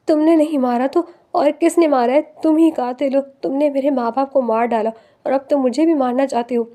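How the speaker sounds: lightly voiced tearful yell; understated sobbing accusation; crying and screaming. Wife accusing husband of killing her parents, tearful scream. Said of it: "روتے ہوئے چیخ چیخ کر".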